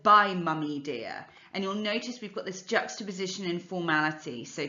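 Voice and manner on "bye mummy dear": posh RP. Shown as a demonstration. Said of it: "instead of".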